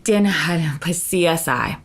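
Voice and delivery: slow, garbled mock diva mumble; imitating an unintelligible slurred reply; a singer. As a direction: mumble it slowly, words blurred together. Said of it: "That's a singer".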